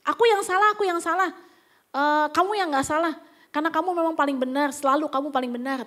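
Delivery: mock sarcastic surrender; insincere apology. Husband cutting an argument short, insincere apology. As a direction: concede while throwing the blame back. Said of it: "minta maaf dengan tulus? Enggak".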